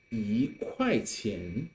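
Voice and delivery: 一块钱 with 一 rising; 一块钱 slowly, 一 as a rising yí; second tone yí. Shown as a demonstration. Teacher models tone sandhi for students, rising yí. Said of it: "it pronounced as the second tone".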